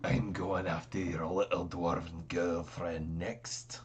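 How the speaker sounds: slow, low taunting voice from afar; dreamy distant voice. Acted. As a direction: call it tauntingly out of the mist. You hear a voice calling from the mist.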